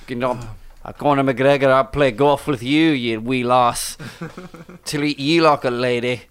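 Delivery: put-on Scottish accent. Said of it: "What we say in Scotland".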